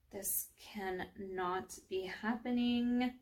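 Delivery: disbelieving thought. Acted. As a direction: think it aloud in stunned disbelief.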